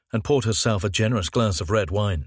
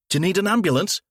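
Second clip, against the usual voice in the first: concerned stranger; 11 semitones higher, much faster than usual. Acted. Another bystander offers help.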